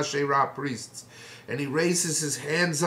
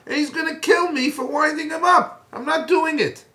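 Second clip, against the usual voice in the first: panicked refusal; 4 semitones higher, 3 dB louder than usual. Retold or imitated. Ovadia protests he'll be killed.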